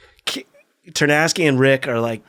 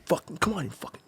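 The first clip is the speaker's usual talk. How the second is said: retold goading; 4 semitones higher, 11 dB quieter than usual. Retold goading before a punch.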